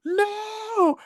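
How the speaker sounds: a sudden, very high, far-off shriek of no; shocked cry of no. Retold or imitated. Kid watching Home Alone shrieks a horrified no. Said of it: "And I went".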